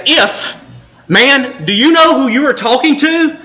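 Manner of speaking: condescending. Pretend. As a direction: talk down to him, mock superior. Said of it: "Jesus is not condescending".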